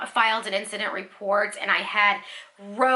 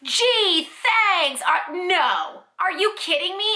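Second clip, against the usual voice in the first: higher, incredulous mock gratitude; sarcastic disbelief; 5 semitones higher, slower than usual. Customer silently answers the return offer, sarcastic disbelief. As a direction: act out an indignant inner retort. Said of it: "in my head I'm like".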